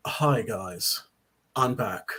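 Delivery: lightly attempted British accent, slow on the thanks; a badly faked British accent; horrible British accent. Star announcing his return on Instagram, in a bad British accent. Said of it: "this is a horrible British ac".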